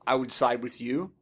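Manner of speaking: ordinary delivery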